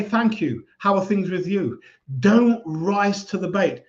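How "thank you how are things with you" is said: light, friendly brush-off answer; calm polite reply. Shown as a demonstration. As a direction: deflect politely and turn it back to them. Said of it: "but just say".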